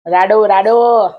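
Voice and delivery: slow, stretched રાડો, રાડો with a falling end; drawn-out repeat. Retold or imitated. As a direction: drag out each રાડો like spelling it out. Friend repeats brand, drawn out. (રાડો, રાડો ધીમે ધીમે ખેંચીને)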